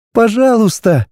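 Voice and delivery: high, begging heroine; pleading girl. A narrator's reading. Heroine begging the dragon, high pleading. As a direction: plead with him to stop. Girl's plea.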